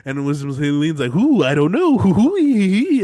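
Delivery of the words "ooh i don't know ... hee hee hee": high, loud impish giggling; goblin giggle. Retold or imitated. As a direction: cackle off like a gleeful goblin. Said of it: "skips off into the fucking night like a fucking goblin".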